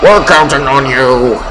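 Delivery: slow put-on earnest plea; a mild heroic rally; hammed-up villager. Player reading a villager's cheer, put-on earnest.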